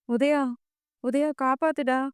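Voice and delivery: a touch of panic, calling for help; urgent frightened call for Udaya; panicked plea. A narrator's reading. Captive woman begging her brother-in-law on the phone, panicked. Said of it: "என மாதவி பதட்டத்துடன் பேச".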